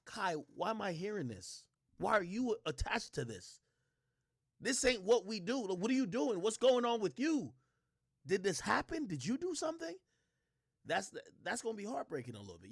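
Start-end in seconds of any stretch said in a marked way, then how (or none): 0.1-9.9 higher, pleading mother's questions, climbing at the end; worried mom. Retold or imitated. Mom calling her son about the news, higher pleading. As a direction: imitate a shocked mom grilling her son. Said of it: "they might be calling to just even say".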